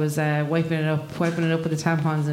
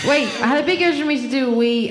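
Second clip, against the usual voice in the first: excited restart; 6 semitones higher, 4 dB louder, faster than usual. Real, not acted. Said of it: "this is definitely gonna be going live".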